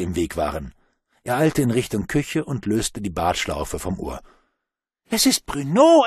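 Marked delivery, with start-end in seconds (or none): 5.1-6.0 put-on high, loud excited child's shout; child calling out. A narrator's reading. A child spots Bruno at the party, high excited call. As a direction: shout it like a thrilled kid. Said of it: "rief eins der älteren Kinder".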